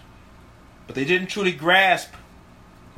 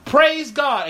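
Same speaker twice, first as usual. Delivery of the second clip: mock casual Christian; 9 semitones higher, 3 dB louder than usual. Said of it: "we're like".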